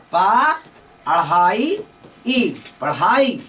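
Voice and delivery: पढ़ाई built up slowly from पा and अढ़ाई; sounding out. Shown as a demonstration. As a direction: build पढ़ाई piece by piece, slowly. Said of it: "यानी पढ़ाई". (पढ़ाई को टुकड़ों में जोड़कर बोलना)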